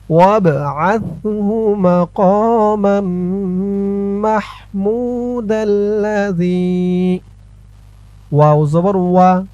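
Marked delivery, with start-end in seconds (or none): 0.1-7.2 slow, drawn-out melodic recitation. Shown as a demonstration. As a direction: recite it slowly, as a model to copy. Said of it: "teacher recites the correct reading". (ধীরে সুর করে তিলাওয়াত)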